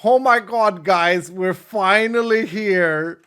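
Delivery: mock excited tourist, slow and loud; lightly voiced thrilled tourist; excited American lady. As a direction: ham up an overjoyed tourist arriving. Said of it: "she goes".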